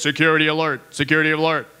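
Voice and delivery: lightly voiced, stern announcement voice; a hint of a robotic alert; mock security alert. Host imagines a streetlight warning listeners. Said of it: "our light post said something like this".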